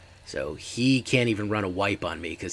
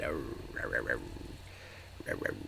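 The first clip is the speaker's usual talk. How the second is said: werewolf growls; 7 semitones lower, 8 dB quieter, much faster than usual. Pretend. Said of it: "That's the sound of the werewolf".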